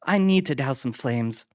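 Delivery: high loud tipsy woman's voice; brushing her off; Adams voiced. A narrator's reading.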